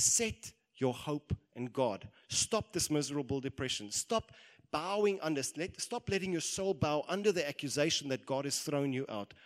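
loud, emphatic exhortation; insistent self-rebuke. Acted. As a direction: drive each command home. Preacher voices David rousing himself.

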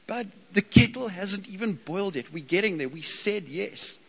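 mild calming dad talking to son; patient parent. Retold or imitated. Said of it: "you end up saying to the kid".

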